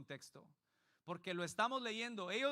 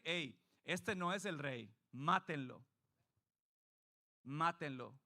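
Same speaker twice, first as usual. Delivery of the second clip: crowd's demand; 3 semitones lower, slower than usual. Retold or imitated. Crowd demanding his death.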